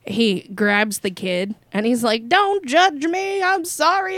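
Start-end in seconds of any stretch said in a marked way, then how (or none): 2.3-4.2 high, slow whining plea; mock pleading. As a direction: play the pathetic begging coward, drawn out. Portnoy grabs kid, quoted.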